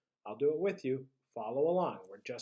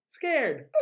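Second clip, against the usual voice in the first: scared face; 12 semitones higher, 7 dB louder than usual. Shown as a demonstration. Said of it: "match my face".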